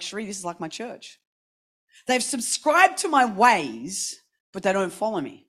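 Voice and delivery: hushed, gentle voice of God; voice of the Lord. Retold or imitated. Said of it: "the Lord is speaking to me".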